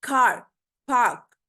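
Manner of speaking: कार and पार्क with the r melted into a long "aa"; blended r. Shown as a demonstration. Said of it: "sound जो है वो combine हो रही है".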